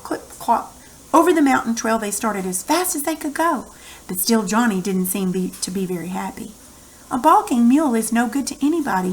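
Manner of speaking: put-on lively read-aloud for children; story narration. A narrator's reading. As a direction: tell the story to the class.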